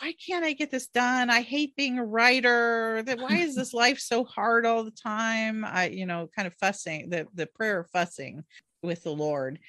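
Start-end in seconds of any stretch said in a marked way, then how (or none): 0.0-5.7 a mild retold rant, a bit higher; mock yelling at God. Frustrated writer fussing at God in prayer, mild mock yell. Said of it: "I was kinda yelling at God".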